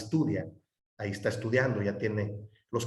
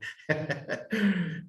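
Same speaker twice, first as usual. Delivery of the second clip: short laugh; 5 semitones higher, 4 dB quieter than usual. Real, not acted. Laughs after refusing again.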